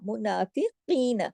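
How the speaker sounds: मुनाफिकीन slowly with a thick throaty क; heavy qaf. Shown as a demonstration. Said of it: "काफ मोटा". (मुनाफिकीन, काफ मोटा)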